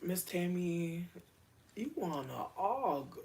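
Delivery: slow drawn-out sung-ish line; mock lyric of a rapper. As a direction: drag out the song line teasingly. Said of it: "But I can't argue with her".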